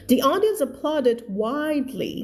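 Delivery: very slow, careful reading; slow read-aloud. Shown as a demonstration. Teacher reading the story line to her class, very slow. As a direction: read it word by word for learners. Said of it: "teacher reads sentence slowly".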